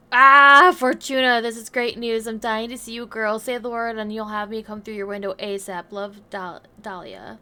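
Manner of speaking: loud, gushing letter reading; excited friend voice. Acted. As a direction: read it like a bubbly friend.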